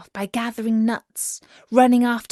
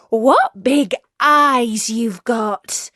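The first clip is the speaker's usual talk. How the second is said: put-on little girl voice; 3 semitones higher, 6 dB louder, much slower than usual. Girl wonders at grandmother.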